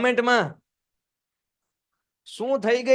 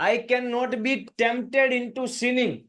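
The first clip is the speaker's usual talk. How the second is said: very slow, higher firm vow; slow, raised solemn vow; slow firm reading; 4 semitones higher, much slower than usual. Shown as a demonstration. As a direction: vow it slowly. Reads Kach's vow aloud.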